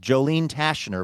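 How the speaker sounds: Tashner said slowly as TASH-ner, C silent; careful name pronunciation. Shown as a demonstration. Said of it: "Tashner is how we're saying this".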